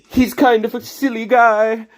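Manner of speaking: slow, high silly cartoon voice; drawn-out goofy robot talk; Bass voice. Still in the Bass voice, describing him, slow and high. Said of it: "voice impression of Bass".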